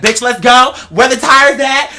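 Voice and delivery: high, loud, urgent shout; rally the crew, tires now; pit-crew hype. Retold or imitated. Fans as a NASCAR pit crew, shouting high and eager.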